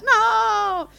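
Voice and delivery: put-on crying child. Little boy telling the man he lost money, high wailing. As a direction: blurt it between sobs like a kid.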